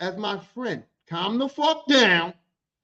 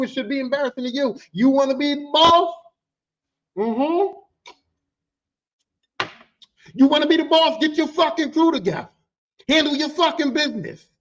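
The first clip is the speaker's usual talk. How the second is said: higher scolding boss; 6 semitones higher than usual. Retold or imitated. Big boss scolding on phone.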